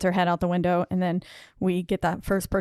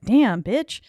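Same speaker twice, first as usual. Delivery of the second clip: louder, higher exclamation; retold shocked reaction; 5 semitones higher, 6 dB louder than usual. Reacting to the deadite's taunts in a horror film, loud shock. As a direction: exclaim it in swooping, raised pitch. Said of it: "And it was like".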